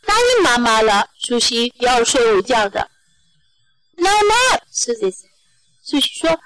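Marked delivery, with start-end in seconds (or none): 4.0-4.6 put-on high-pitched child's protest; little girl refusing. A narrator's reading. Susie to Daddy about nap time, high-pitched refusal.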